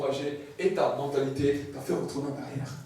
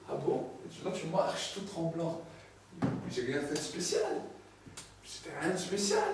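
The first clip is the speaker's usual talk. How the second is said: humble believer; 7 dB quieter than usual. Acted. Believer answers God shyly, soft and humble. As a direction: shrug it off quietly, bashful.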